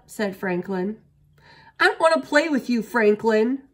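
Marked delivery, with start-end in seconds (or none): 1.8-3.7 high, loud, rushed shout. A narrator's reading. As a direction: fling it at him fast and loud. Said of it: "shouted Bear".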